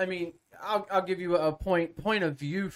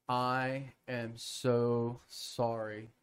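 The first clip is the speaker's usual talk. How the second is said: mock contrite apology; 4 semitones lower, 4 dB quieter than usual. Golfer learns his partner is a preacher, sheepishly apologetic.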